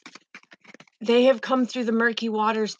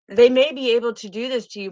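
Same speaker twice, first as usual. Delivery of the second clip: a little louder and faster, urging; emphatic divine promise; 5 dB louder, faster than usual. Retold or imitated. Spirit voicing the divine's promise to the viewer, emphatic. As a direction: promise it with rising fervor.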